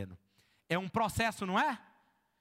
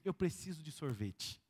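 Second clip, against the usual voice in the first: mock craving; 9 semitones lower, 8 dB quieter than usual. Acted craving for ice cream.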